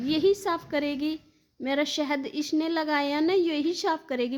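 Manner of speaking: high imitated child, words clearer; child's demand, clearer. Madhav blames caretaker for the honey, insistent child voice. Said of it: "ऐसे बोलता है".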